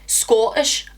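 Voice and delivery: a brief, unsure stab at Scottish; attempted Scottish accent. Shown as a demonstration. Vlogger admits she can't do it, attempted Scottish accent. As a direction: try the word in a poor Scottish accent. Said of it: "I can't".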